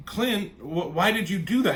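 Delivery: distressed questioning. Retold or imitated. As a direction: plead for an explanation, acted out. Acting out her questioning Clint.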